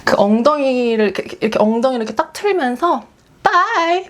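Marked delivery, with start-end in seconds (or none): 3.4-4.0 high sing-song taunting bye; mocking goodbye. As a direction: tease them as you sail past. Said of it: "힘껏 몸짓과 말투로 인사를". (높게 약 올리는 작별 인사)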